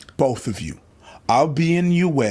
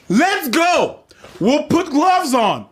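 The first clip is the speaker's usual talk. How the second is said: high, heated and slower; fired-up challenge; 11 semitones higher, slower than usual. Real, not acted. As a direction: throw down the gauntlet, pitched up. Repeats fight challenge, pitched up.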